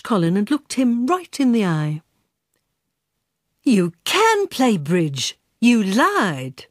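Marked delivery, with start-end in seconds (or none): 3.6-6.7 slow, deliberate accusation; serious accusation. Acted. Eunice confronts the robot over his lie, slowly accusing. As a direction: lay the charge on him word by word. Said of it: "This was a serious accusation".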